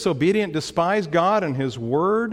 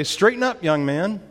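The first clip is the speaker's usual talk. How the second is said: lightly voiced dad's command, raised at the start; a hint of a father correcting his son; stern father; 5 semitones higher than usual. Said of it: "as a child he would say".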